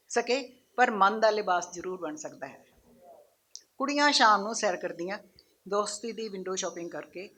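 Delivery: measured recital with pauses, each line falling away; poem recitation. Acted. Poet reciting hostel girls' evening stroll to an audience, measured poem recitation. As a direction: recite it line by line, letting the endings drop.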